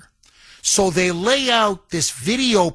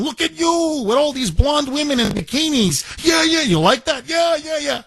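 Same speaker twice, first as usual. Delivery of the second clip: hyped-up shout; 8 semitones higher than usual. Retold or imitated. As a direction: yell it like a party promoter firing up the crowd. Officials hyping Kim, imitated shouting.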